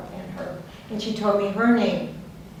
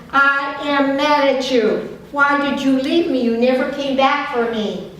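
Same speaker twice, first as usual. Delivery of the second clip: changed angry voice; 4 semitones higher, 6 dB louder than usual. Retold or imitated. Friend accuses her of leaving, acted loud anger. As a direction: act out a wounded, furious reproach. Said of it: "suddenly changed her v-, voice and said".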